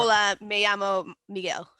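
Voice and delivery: Spanish in a put-on British accent. Shown as a demonstration. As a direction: say basic Spanish like a Brit. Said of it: "with a British accent".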